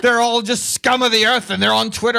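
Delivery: laughing Scottish-Irish caricature; mock Irish accent. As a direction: drift into a hammed-up Irish brogue. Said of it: "It's like you got into a Scottish accent".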